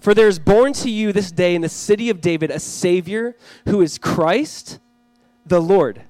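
measured, emphatic public Bible reading; scripture reading. A narrator's reading. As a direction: proclaim the verses, stretching key words. Reads scripture aloud to congregation.

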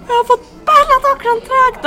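very high, loud, drawn-out yell; slow, high-pitched shriek of triumph; retold excited shouting. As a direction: re-enact shouting out the big news. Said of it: "Så alla började skrika så här".

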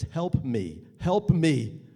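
spoken aloud, rising to a loud cry; voiced plea. Shown as a demonstration. Showing the audience the silent plea, loud. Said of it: "you can't see that maybe".

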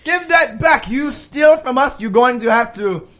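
mock-Italian shopkeeper making demands; attempted Italian accent. Shop owner demands goods back, mock-Italian accent. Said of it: "I'm gonna be an Italian shop owner".

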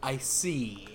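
hushed whispered aside. Acted. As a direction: breathe it out in a whisper. Quiet aside in the scene.

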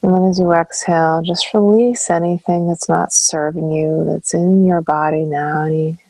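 calm meditation guide, long pauses between phrases; guided meditation. Acted. Counselor guiding listeners into breath and stillness, calm meditation voice. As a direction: ease them through each breath, leaving space after phrases.

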